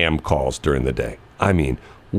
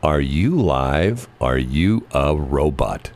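slow suspicious question; 3 semitones lower, much slower than usual. Retold or imitated. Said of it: "I actually said".

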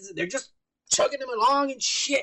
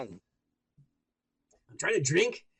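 stuffy nose, very slow words; blocked nose; 5 semitones lower, slower than usual. Real, not acted. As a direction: drag it out through a blocked nose. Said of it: "I can't even breathe through my nose".

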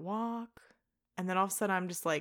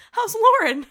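mimicking the boss; 14 semitones higher, 16 dB louder than usual. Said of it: "She goes".

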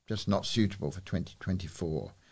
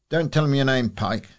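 mock Captain Mainwaring; 5 semitones higher, 7 dB louder than usual. Quoting Captain Mainwaring's famous line.

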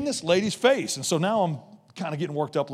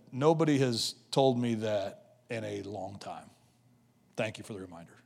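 subdued, understated emotion, sinking at the end; retold tearful thanks; 7 semitones lower, 8 dB quieter than usual. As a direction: quietly imitate a moved woman's thanks. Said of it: "just started weeping".

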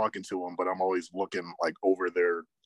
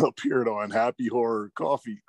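laughing while talking; 4 semitones higher than usual. Real, not acted. Still giggling.

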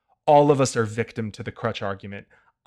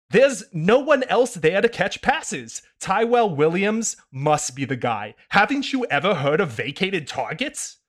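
put-on Kyle Gordon no fun kid voice; 6 semitones higher than usual. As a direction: lecture with smug kid disbelief. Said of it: "no fun kid voice".

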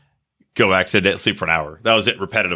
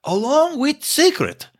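solemn president address; 2 semitones higher than usual. Retold or imitated. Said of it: "He's like".

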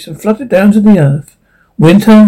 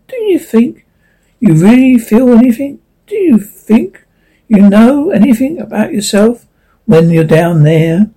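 higher, anxious leaf voice; 4 semitones higher than usual. Acted.

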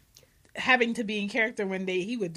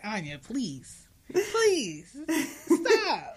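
begging mom; 6 semitones higher, much slower than usual. Retold or imitated. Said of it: "I'm just like".

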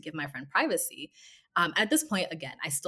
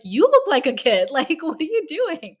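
laughing mock retort; 11 semitones higher, 13 dB louder than usual. Friend's boyfriend mocks her back.

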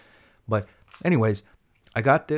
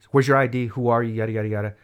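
mildly brusque mock officer, louder opening; officer with attitude; 5 dB louder than usual. Police officer demanding ID, imitated attitude. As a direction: fire questions off, imitating a pushy cop. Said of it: "he got attitude with me immediately".

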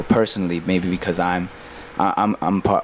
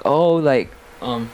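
announcer voice; 8 semitones higher than usual. Retold or imitated. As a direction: hype up the crowd like an MC. Retelling the host's stage announcement.

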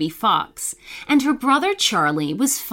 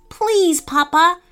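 put-on high, begging little boy voice; pleading; 8 semitones higher, 3 dB louder than usual. A narrator's reading. Scared young fox begs his father, high and pleading. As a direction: beg him one more time. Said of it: "he said in a pleading voice".

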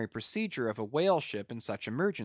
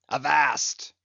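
louder sharp cry; cried out; 6 dB louder than usual. Acted. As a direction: cry out to stop them. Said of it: "cried Ahab".

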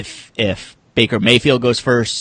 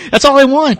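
laughing through the words; 7 dB louder than usual. Real, not acted. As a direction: let the laugh spill into the line. Laughing at Austin's joke.

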